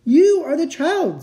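"You" high, loud and drawn out; emphatic revelation. A narrator's reading. Fawn revealing Lucy is the victim, emphatic.

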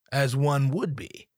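ordinary delivery

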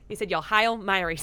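lightly Boston Hail Marys; Boston accent. Shown as a demonstration. Friends riff on a Boston prayer, mild Boston accent. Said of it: "sounds a little bit like a Kennedy".

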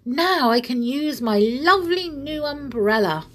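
high-pitched, delighted exclamation; gladly excited. A narrator's reading. Bear gets to use his new umbrella, delighted. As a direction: rejoice in a swooping high voice. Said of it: "he cried gladly".

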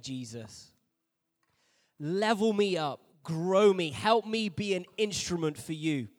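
praying through covered mouth; hand over mouth. Real, not acted. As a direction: speak with hands over your mouth. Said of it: "Now put your hands over your mouth".

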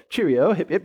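lightly put-on British accent; a brief, playful go at a British accent. Shown as a demonstration. Preacher shows off his best British accent to the congregation, lightly British. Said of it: "best British accent".

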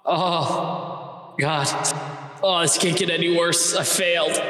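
pained guard. Acted. Hit by crystal in eyes.

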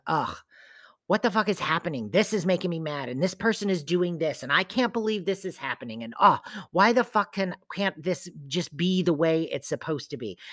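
fast, exasperated griping at life; frustrated venting. Retold or imitated. Reading back her journal rant, fast and exasperated. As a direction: rattle off the complaints, fed up. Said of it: "some of it was just bitching, complaining".

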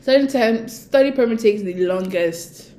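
hiccuping mid-sentence; words cut by hiccups. Real, not acted. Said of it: "Sorry, guys, I have hiccups".

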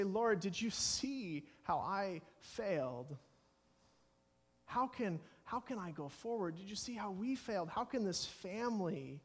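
mildly distressed appeal to God; anguished plea. Acted. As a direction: act out a troubled confession to the Lord. Acted anguished prayer over failure.

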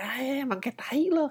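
put-on high taunting kid voice; mocking kid. A kid taunting a classmate behind the teacher, high. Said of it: "kayak ngeledekin".

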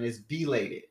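slow "belated", starting clearly with B; correcting pronunciation. Retold or imitated. Uncle correcting him, "belated" said slowly with a B. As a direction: stretch out "belated" to correct related. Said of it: "he corrected me on that".

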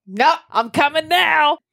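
put-on high, slow little baby voice. Mother voicing her unborn baby refusing to wait, high baby voice. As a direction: put on a tiny voice for the stubborn baby.

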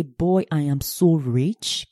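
savoring being rich. Shown as a demonstration. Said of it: "you say".

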